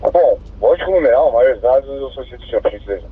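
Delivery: crackly two-way radio transmission; squelchy handheld radio; police radio. Real, not acted. Unit asks over radio.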